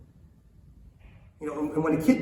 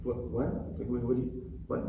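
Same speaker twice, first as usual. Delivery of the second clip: confused daughter; 3 semitones lower, 7 dB quieter than usual. Retold or imitated. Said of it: "she'll almost look at me like".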